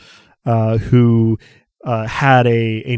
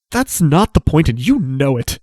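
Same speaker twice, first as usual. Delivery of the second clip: pitched-up accusing cry; 5 semitones higher than usual. Acted. Asha accusing Dosk of harming Romnet, pitched-up accusing. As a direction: blame him for what was done. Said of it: "looks back at Dosk accusingly and says".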